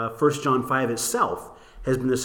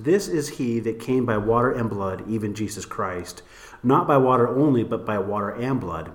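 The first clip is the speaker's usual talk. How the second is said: measured reading, phrases falling low at the ends; scripture reading; 3 semitones lower than usual. Real, not acted. Host reading the King James for comparison, scripture reading.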